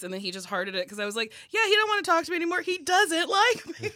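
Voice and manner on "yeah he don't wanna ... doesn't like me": high, loud comic outburst; mock realization, laughing. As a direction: squeal it out, breaking into laughter. Her amused imagined reaction.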